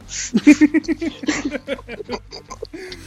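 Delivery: long high-pitched laugh; real, sustained giggling fit. Real, not acted. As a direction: burst out laughing at your own punchline. Laughing after own joke's punchline.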